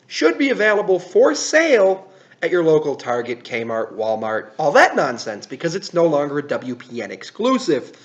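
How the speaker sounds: upbeat product news read; brisk presenter talking to camera; YouTube host delivery. Acted. Host's product news segment.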